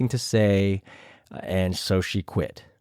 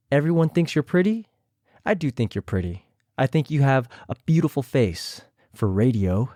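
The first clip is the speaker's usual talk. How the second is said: imitating Raven; 3 semitones higher than usual. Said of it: "I tried my best to imitate them".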